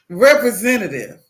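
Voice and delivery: loud call for a human; exasperated demand. Retold or imitated. Caller to an automated phone line, loud and exasperated. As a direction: demand it firmly in one go.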